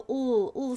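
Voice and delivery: isolated L sound, "ul"; teacher voicing the "ul" sound by itself; letter sound demo. Shown as a demonstration. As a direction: sound out "ul" as a lone letter sound, twice. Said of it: "find the letter that makes the".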